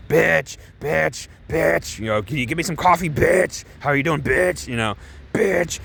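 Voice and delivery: a hint of Jesse's "bitch" catchphrase; Jesse Pinkman impression. Fans mocking Jesse Pinkman, lightly voiced Jesse impression. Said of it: "Everyone was doing the Jesse Pinkman".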